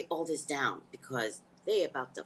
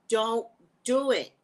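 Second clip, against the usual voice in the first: higher, louder slow pleading; desperate loud begging; loud plea; 5 semitones higher, 4 dB louder than usual. Real, not acted. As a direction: beg them loudly, drawn out. Pleading against vaccine news.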